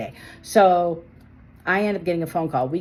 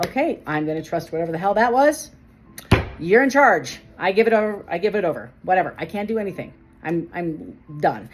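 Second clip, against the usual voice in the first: retold exasperated surrender; 4 dB louder than usual. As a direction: throw up your hands, louder then trailing down.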